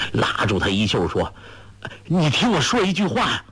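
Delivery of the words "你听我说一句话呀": fast, higher pleading rush; anxious plea. A narrator's reading. Young man grabbing her sleeve, fast anxious higher plea. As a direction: beg her to stop and listen. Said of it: "郭靖大急".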